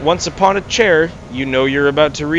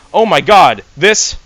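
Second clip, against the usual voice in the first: excited exclaim; 4 semitones higher, 4 dB louder than usual. Acted. Thrilled at opening the package.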